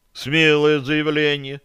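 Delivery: approving. Acted. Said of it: "одобрил Бозел".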